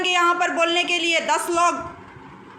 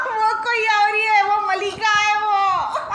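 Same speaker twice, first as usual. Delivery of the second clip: laughing while mock crying; 5 semitones higher than usual. Laughing through mock tears.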